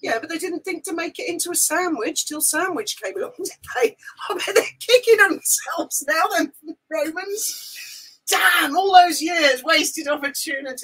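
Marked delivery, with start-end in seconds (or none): 3.3-10.8 laughing while joking; giggling through the joke. Real, not acted. Joke about the Romans.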